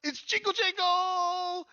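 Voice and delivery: very high, loud goblin squeal; slow, shrieking small goblin greeting; Jingle Jangle, overjoyed. Acted. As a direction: stretch out an ecstatic squeaky greeting. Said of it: "and he says".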